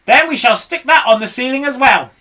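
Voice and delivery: high loud commands; shouted orders. Acted. Mugglewump shouts orders to the animals. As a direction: direct the crew boldly. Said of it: "shouted Mugglewump".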